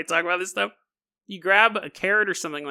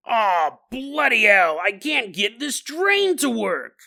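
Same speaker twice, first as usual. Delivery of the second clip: hammed-up British grumble; stereotypical British; 4 semitones higher, slower than usual. Mark downstairs cursing the blocked drain, stereotypical British. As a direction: put on a cartoon British accent. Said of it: "when did you become stereotypical British".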